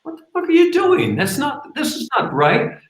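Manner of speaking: high, fast outraged yell; high furious yell; kid chasing, yelling. Retold or imitated. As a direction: scream it chasing after him.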